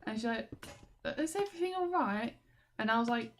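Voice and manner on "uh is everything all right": concerned coworker. Retold or imitated. Voicing the concerned assistant manager.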